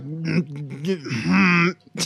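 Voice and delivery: low mock grunting; troubled grunts. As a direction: imitate a man grunting in trouble. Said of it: "troublingly grunts".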